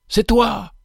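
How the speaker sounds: sudden high joyful exclamation; joyful cry. A narrator's reading. Benefactor to the humble convict, a joyful high cry. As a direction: burst out in glad recognition. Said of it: "s'écria-t-il".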